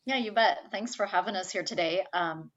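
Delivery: husky smoker's rasp; raspy whiskey voice, throat catching. Real, not acted. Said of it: "That's my whiskey voice".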